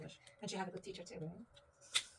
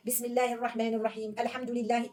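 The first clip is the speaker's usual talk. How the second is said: quick imitation of imam; much faster than usual. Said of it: "when you hear Imam ... he will say".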